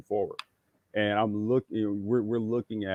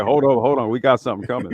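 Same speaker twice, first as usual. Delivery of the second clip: urgent warning; 9 dB louder, faster than usual. Pretend. Voicing the yawn as a warning.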